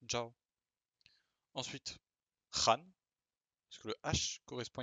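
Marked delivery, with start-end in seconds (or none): 0.1-0.3 "Zhao" said as "djao" with a dj sound; Chinese pronunciation. Shown as a demonstration. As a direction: give "Zhao" a French dj, then "ao". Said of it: "D J A O".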